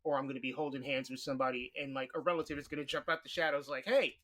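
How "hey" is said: raised, louder mock "hey"; imitated call-out. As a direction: call out like someone springing an ambush. Relative jumps out of shadows, calling.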